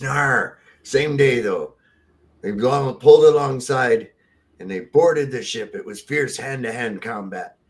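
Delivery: lightly voiced pirate storyteller. Pirate explains his hook, lightly hammed-up pirate voice. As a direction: spin the battle yarn in mild pirate talk. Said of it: "I'm a pirate".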